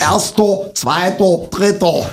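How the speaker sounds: "Erster, Zweiter, Dritter" high, each ending in O; Saxon pronunciation. Shown as a demonstration. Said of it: "Der unbekannte Vokal ist das O".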